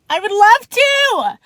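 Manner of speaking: loud, high, drawn-out squeal of yes; gushing excitement. Retold or imitated. Woman inwardly answering the cop's dinner invitation, gushing. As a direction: blurt it out, overjoyed and stretched out.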